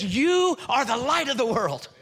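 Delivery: a smiling, assured promise; lightly voiced Jesus, said through a smile with confidence; smiling and confident. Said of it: "he says it with a smile on his face".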